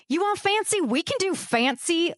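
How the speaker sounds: hammed-up high challenge, slowing at the end; mock scream. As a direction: shout it after him like a threat. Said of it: "Logan screamed after the Italian".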